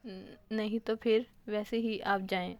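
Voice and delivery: slow, stumbling, nervous reply; flustered stammer. Acted. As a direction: stammer it out, too shy to look. Flustered shy girl. (घबराकर अटकते हुए)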